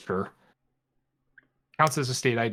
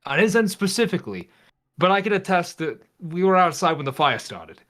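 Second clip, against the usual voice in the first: nervous guy explaining fast; raised excited voice; 4 semitones higher than usual. Acted. Player voices Ethan in character.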